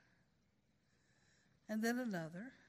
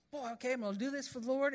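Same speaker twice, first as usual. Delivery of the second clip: enthusiastic; much faster than usual. Pretend. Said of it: "and just is so enthusiastic".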